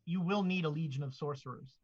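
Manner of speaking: low, quiet oracle voice; headdress voice. Acted. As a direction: intone it like an ancient artifact. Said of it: "Joan, will say".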